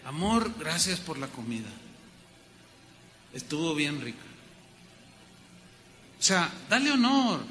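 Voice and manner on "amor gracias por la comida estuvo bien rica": tender thanks. Retold or imitated.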